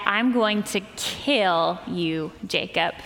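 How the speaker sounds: lightly voiced angry brother, drawn out slowly; mild menacing threat. Retold brother's death threat.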